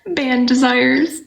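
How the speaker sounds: slow, savoring the phrase; amused repeat. Real, not acted.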